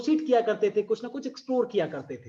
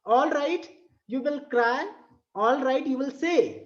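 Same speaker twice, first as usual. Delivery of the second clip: slow, sing-song poem reading; drawn-out recital voice; poem recitation; 3 semitones higher, much slower than usual. Shown as a demonstration. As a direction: read it out like a verse for class. Teacher recites poem lines.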